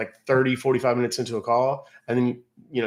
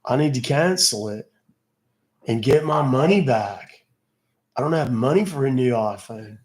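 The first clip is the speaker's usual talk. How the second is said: surfer voice. Pretend. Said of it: "That's why I don't do the surfer voice".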